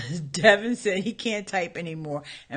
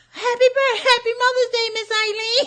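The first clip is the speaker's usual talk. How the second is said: tiny, very high, squeaky mouse-like voice; 8 dB louder than usual. Retelling a faked birthday greeting, imitating Kiana's mousy voice. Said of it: "Kiana got one of those little mousy voices".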